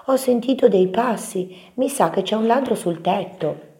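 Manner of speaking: high, worried little mouse; alarmed small mouse voice; Topino che grida. A narrator's reading. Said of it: "gridò Topino". (vocina acuta e preoccupata)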